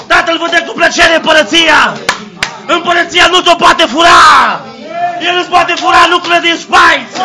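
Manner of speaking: preacher roaring to the congregation; full-force preaching. Acted. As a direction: shout the victory like a revival preacher.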